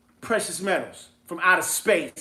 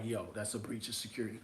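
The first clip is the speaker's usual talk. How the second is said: imitating his friend; 12 semitones lower, 21 dB quieter, faster than usual. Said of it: "I know he's gonna be like".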